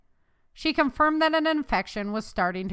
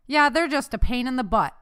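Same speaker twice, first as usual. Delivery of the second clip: raised, higher-pitched jibe; loud; 5 semitones higher, 7 dB louder than usual. A narrator's reading. Mother teasing loudly as her son approaches, voice raised. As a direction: say it loudly, for others to hear. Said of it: "she said loudly".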